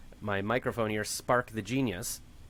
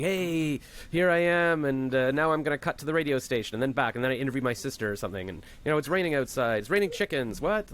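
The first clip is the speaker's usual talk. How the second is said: put-on kid radio host. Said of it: "I'd be like".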